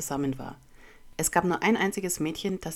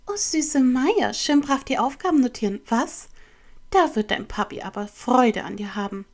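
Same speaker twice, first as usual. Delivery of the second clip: sugary taunt; 7 semitones higher, 7 dB louder than usual. A narrator's reading. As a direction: tease the classmate with exaggerated, high-pitched sweetness. Classmate taunts studious narrator. (zuckersüß spöttisch)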